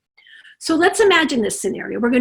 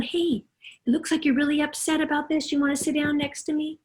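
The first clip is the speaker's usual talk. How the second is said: softer, gentle and soothing; soft comforting parent; 2 semitones higher, 5 dB quieter than usual. Acted. Parent calming a crying child, soft soothing. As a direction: comfort the upset child quietly.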